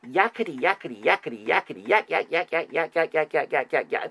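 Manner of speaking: dismissive sing-song chatter mimicking endless talk; mocking yakety yak. Mocking rival preachers' endless talk with sing-song yakety yak. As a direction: rattle it off like pointless babble. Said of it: "They talk and talk and talk".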